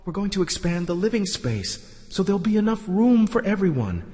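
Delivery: high, thin raving voice; delirious dreamer. Acted. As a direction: rave on in a high voice.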